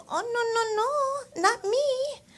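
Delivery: very high, slow mock nail tech; squeaky high protest, drawn out slowly. Nail tech denying she did the nails, very high mock voice. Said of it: "she's like".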